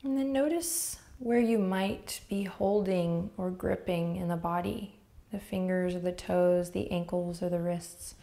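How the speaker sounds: unhurried, gentle meditation guiding with long pauses; guided meditation. Real, not acted. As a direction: ease the listener into noticing, leaving space between phrases.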